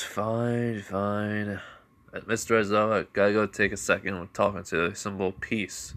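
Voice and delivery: lightly voiced mocking fine, fine; a touch of sarcasm, brushing him off. Ichigo mocking his father in front of Aizawa, lightly sarcastic. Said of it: "As it says in a mocking tone".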